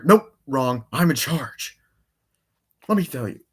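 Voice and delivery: cutting someone off, mock-domineering; Robotnik. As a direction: imitate a villain seizing command. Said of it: "Doctor Robotnik".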